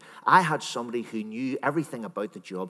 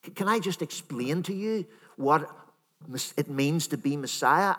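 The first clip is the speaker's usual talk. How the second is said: imagined reasoning Peter; 3 semitones higher than usual. Pretend. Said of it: "maybe he said".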